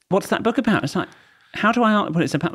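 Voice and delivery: mock American tourist, high and perky; American impression. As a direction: redo her as a chirpy American. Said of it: "Sorry, she wasn't Australian".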